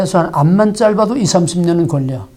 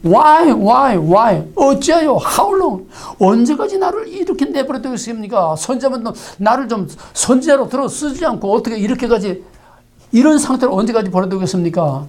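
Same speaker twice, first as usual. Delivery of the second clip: anguished lament; 3 semitones higher than usual. Acted. Prophet cries to God, asking how long, in high anguished pleading. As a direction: cry out why to God from despair.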